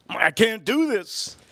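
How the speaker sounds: acted kid giving up; mock breakdown. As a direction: drag out a whiny protest. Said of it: "I almost broke down".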